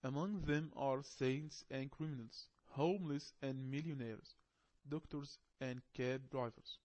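slow, deliberate reading of the English text; measured classroom reading. Acted. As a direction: read it aloud carefully to learners. Reading lesson text aloud.

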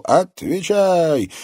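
slow, loud, high barked command; shout. A narrator's reading. Interrogator shouting at the captive woman. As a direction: demand an answer now. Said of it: "мужской голос крикнул".

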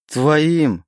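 roar. Acted. Oleg rejects the demon's claim, roaring. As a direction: tear your voice on the word. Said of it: "надрывая связки, взревел Олег".

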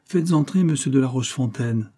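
commanding, crisp order; with authority. Acted. Adventuress orders the office boy, with authority. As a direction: give the order as if the office were hers. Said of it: "lui ordonna avec autorité".

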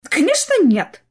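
high, loud overeager denial; lying loudly. A narrator's reading. Clara lying to her sister, loud overeager denial. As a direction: deny it too hard, caught out. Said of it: "соврала Клара".

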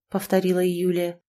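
usual speaking voice

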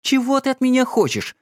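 high, exasperated cry; wife leaping up, crying out at husband; exclaiming. A narrator's reading. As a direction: burst out, leaping up. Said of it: "воскликнула она".

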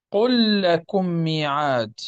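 "قل لكم ميعاد" with a doubled lam, qullakummi'ad; drawn out, lam of "قل" merged into "لكم"; slow careful recitation. Shown as a demonstration. Teacher repeating the example slowly for the class: "قل لكم ميعاد" with a merged lam. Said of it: "ندغم تلك اللام".

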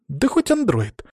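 high, passionate exclamation; heated teen girl's retort; fervent outburst. Acted. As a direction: cry it out with feeling. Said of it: "с пылом выкрикнула".

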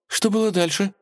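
put-on high girlish voice of Vasilisa; a bright, eager girl asking; young princess voice. A narrator's reading. Princess begging the cat for the rest of the story, high girlish voice. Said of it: "спросила Василиса".

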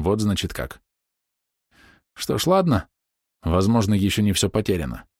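ordinary delivery, nothing marked

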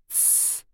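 hissed unvoiced shush; sharp hush. A narrator's reading. Disguised Sasha hushes Ira in the cafe, hissing. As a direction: hiss her quiet at once. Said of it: "прошипел пенсионер".

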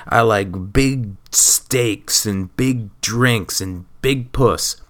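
slow, dumb macho-guy boast; Tommy's macho voice. Retold or imitated. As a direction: ham up a big dumb tough guy, dragging the words. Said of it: "that's my friend Tommy saying".

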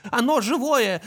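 put-on high child voice, excited; toy voice of little brother. Toy repeats the little brother's phrase, high and excited. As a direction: squeal it like a small boy's toy. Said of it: "на голос братишки".

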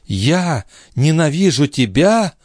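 high, slow, disbelieving question; astonished exclamation. A narrator's reading. Lorenza answers the count's claim that she hates him, astonished. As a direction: draw it out high, as if the idea is absurd. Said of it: "воскликнула она".

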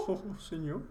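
"Oh, oh, oh" with a closed, rounded mouth; closed British vowels. Shown as a demonstration. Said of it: "Exactamente, ahí la cerraste".

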